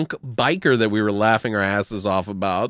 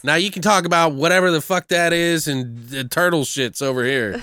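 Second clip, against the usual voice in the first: commanding tough guy; 5 semitones higher than usual. Retold or imitated. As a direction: hand back the mic like you own the show. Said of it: "had this commanding presence over".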